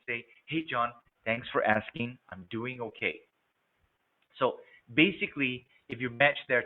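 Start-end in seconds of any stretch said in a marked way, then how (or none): 0.5-3.2 slow, even and unhurried; calm, slow reply. Shown as a demonstration. Sales rep mirroring a calm caller, slow and easy. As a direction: settle into the caller's calm pace. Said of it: "I'm gonna speak more calmly".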